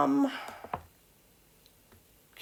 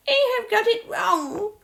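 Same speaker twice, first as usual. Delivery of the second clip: much higher put-on scolding voice; mock error message; 13 semitones higher, 4 dB louder than usual. Learner imitating the app marking mistakes, high mock voice. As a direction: mimic an error alert, high-pitched and louder. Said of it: "without going".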